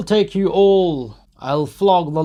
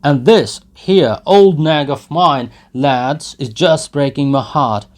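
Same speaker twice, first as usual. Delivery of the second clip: loud, higher bragging rant; drunken boastful shouting; 7 semitones higher, 13 dB louder than usual. Acted. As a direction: brag and bellow at the lads. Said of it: "he shouted from the cart".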